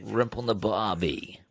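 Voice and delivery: put-on drawn-out jokey Australian accent. Co-host riffing on the request, slow Australian accent. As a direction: stretch it out in a playful Australian accent. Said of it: "do it in an Australian accent".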